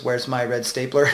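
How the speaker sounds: light impression of a droning film office worker; a hint of a monotone movie character; guy in Office Space. Coach likening dull speech to a film character, lightly imitated monotone. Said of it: "like the guy in Office Space".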